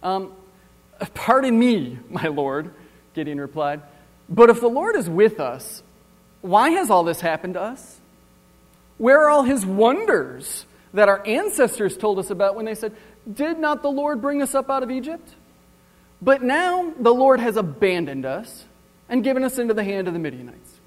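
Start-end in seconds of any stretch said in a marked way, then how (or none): 1.1-2.7 sarcastic and cynical, a bit louder; sarcastic Gideon. Acted. Gideon sassing the angel who called him mighty, sarcastic. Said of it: "So I'm gonna read it with my tone". 4.3-20.8 louder, higher, sarcastic complaint; sarcastic and cynical. Acted. Gideon complaining to the angel that the Lord abandoned them, sarcastic. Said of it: "So I'm gonna read it with my tone".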